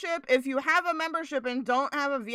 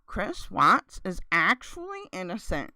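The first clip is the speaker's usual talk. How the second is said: low, quiet, conspiratorial; lightly voiced creepy video host; mock true-crime narrator; 7 semitones lower, 3 dB quieter than usual. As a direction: start a sinister internet rant.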